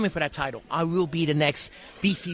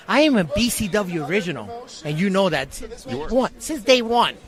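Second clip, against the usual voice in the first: wrestling promo rant. Acted. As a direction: fire up the crowd like a wrestling villain. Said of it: "Character, character starting a little early".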